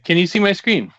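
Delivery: playful stage whisper. Pretend. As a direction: whisper the question into the mic. Whispering joke after whisper remark.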